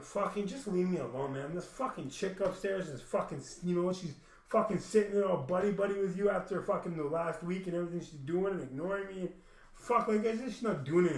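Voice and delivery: retold angry outburst. Retold outburst at family downstairs.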